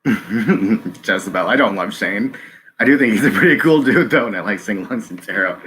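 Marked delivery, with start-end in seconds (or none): 0.1-1.5 drawn-out laughing name; laughing as she reads a viewer's name. Real, not acted. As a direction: laugh through the name slowly. Laughing while reading name.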